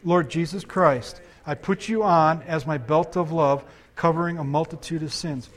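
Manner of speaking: leading prayer together. Real, not acted. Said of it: "Let's pray this together".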